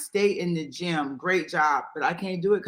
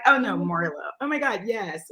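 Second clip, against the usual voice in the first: light valley-proper accent. Shown as a demonstration. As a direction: put on a hint of proper valley talk. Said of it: "it's that valley proper".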